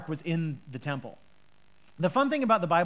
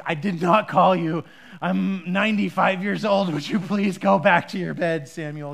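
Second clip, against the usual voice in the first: put-on a touch of grumpy old man, a bit louder; weary old priest losing patience; grumpy Eli; 5 dB louder than usual. Eli tiredly asks Samuel to go back to bed, lightly grumpy. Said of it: "a very grumpy voice on Eli".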